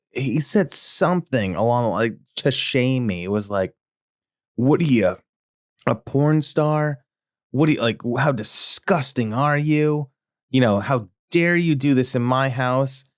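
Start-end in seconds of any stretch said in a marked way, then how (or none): 4.5-13.0 higher, slow disgusted dad; shaming dad. Retold or imitated. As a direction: shame the kid word by word.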